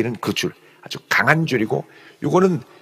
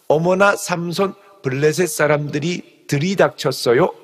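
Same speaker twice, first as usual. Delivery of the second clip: coy Delilah. Retold or imitated. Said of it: "이렇게 얘기하는 거죠".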